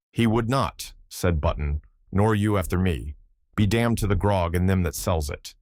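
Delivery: put-on old Irish seaman, lively brogue; Irish sailor accent. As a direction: tell it in a thick Irish brogue. Button retorts.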